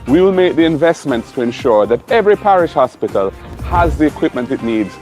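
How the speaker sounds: loud, rousing campaign address; rally the crowd with fire; rally speech. Acted. Campaign speech over music.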